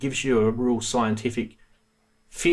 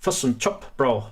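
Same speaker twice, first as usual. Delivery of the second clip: bad New Zealand accent. Shown as a demonstration. Streamer testing a New Zealand accent on viewers, badly faked Kiwi. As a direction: have a poor go at New Zealand vowels. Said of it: "I can't do a New Zealand accent".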